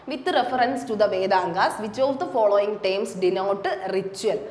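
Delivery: each English word spaced out slowly for students; slow dictation reading. Shown as a demonstration. Teacher reads exam question to students, slow dictation.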